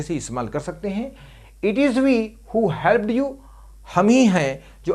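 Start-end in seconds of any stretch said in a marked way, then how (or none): 1.6-3.3 slow dictation. Shown as a demonstration. Teacher dictating an English example sentence.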